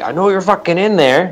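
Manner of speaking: put-on yelling. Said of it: "someone starts yelling".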